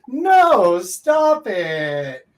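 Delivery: mean it, shut it down; stern, loud refusal; firm loud no. Shown as a demonstration. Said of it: "polar opposites".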